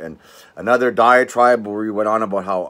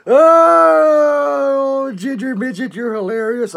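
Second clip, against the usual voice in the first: mocking high voice; 7 dB louder, much slower than usual. Real, not acted. Taunting a hater.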